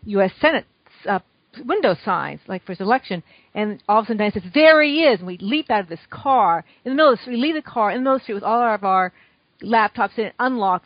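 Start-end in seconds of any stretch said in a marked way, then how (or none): 4.5-5.2 loud, high excited call; retold shout of recognition; retold excited sighting. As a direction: call out on spotting someone, pitched up. Spotting Obama from the car.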